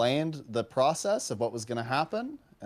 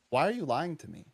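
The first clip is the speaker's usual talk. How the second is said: retold upset question; 3 semitones higher than usual. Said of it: "I got a bit upset".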